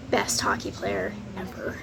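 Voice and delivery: whispered through a giggle; low unvoiced giggly aside; breathy laughing whisper. Real, not acted. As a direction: giggle the words under your breath.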